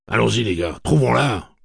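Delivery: loud, high rallying call; rallying shout. Acted. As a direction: call the men to move out. Eddie rallies the group.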